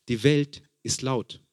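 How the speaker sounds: slowed down, every word weighed; slow emphatic repeat. Shown as a demonstration. Preacher repeats it slowly to the congregation.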